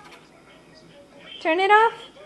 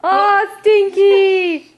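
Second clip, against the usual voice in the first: louder teasing stinky; playful mock disgust; 7 dB louder, much slower than usual. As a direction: tease the baby gleefully. Playful game with baby.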